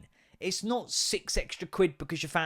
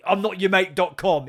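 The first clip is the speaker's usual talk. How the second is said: a louder take on the rude customer; imitating a rude customer, a bit louder; mock indignant, louder; 5 dB louder than usual. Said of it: "He says that about four times".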